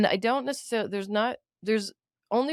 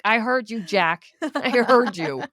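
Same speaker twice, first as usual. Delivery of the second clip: pointed retort, slowing on the repeat; firm comeback, drawn out at the end; calling someone out; 4 dB louder, slower than usual. Retold or imitated. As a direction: let them know they were overheard. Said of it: "I was like".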